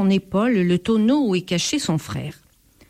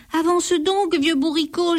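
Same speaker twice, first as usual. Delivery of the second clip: mild moan; 9 semitones higher than usual. A narrator's reading. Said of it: "gémit le voleur".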